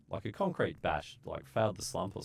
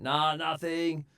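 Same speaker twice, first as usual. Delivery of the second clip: casual nah; 10 semitones higher, 4 dB louder, slower than usual. Retold or imitated. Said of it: "And I was like".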